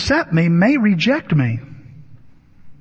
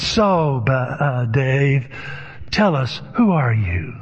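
lightly imitated, low, deliberate questioner; a hint of a probing therapist, dropping low; Jack Nicholson; 4 semitones lower, slower than usual. Therapist asks Dave in the group circle, lightly imitated probing. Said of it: "Jack Nicholson says".

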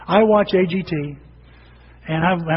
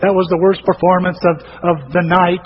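mean judge; 6 dB louder than usual. Retold or imitated. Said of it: "Howard Stearns is mean to him".

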